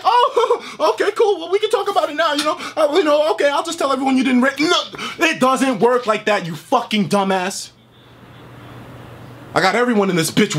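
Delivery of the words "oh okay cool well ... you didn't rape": higher, laughing sarcastic imitation; mock casual. Mimicking Nate brushing off the accusation, laughing sarcasm. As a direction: ridicule him with a breezy fake tone. Mocking Nate's casual backpedal.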